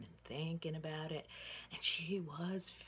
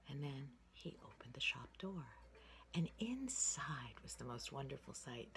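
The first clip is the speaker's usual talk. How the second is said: whispered story. Acted. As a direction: breathe the story out in a hush.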